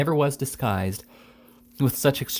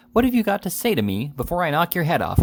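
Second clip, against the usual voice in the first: threatening; 6 semitones higher than usual. A narrator's reading. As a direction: threaten to knock his head off. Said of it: "in a threatening manner".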